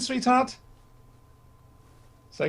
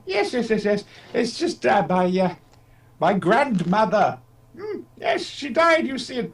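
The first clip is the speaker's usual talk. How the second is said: put-on a mild take on a doddery old Doctor; a hint of a querulous old man dithering; Billy Hartnell voice; 2 semitones higher, slower than usual. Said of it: "my Billy Hartnell voice".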